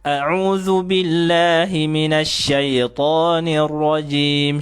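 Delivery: A'udzu billahi minasy syaithanir rajim dibaca lambat dengan sukun ya jelas; bacaan pelan dan jelas. Shown as a demonstration. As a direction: lantunkan ta'awudz pelan. (contoh ta'awudz dengan sukun jelas)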